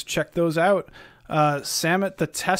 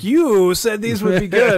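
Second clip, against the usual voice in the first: whiny complainer; 5 semitones higher, 5 dB louder than usual. Retold or imitated. Mocking an angry viewer.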